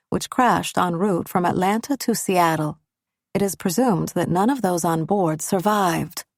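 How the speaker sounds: flat scripted robot delivery. Acted. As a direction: read the bad news like a robot. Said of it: "She sounds like a robot".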